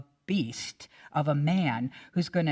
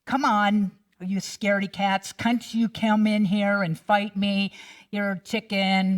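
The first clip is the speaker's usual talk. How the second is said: loud taunting giant; mock giant's bellow; giant yelling; 3 semitones higher, 4 dB louder than usual. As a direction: yell it out like a bully calling them cowards. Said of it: "giant of a man who's yelling".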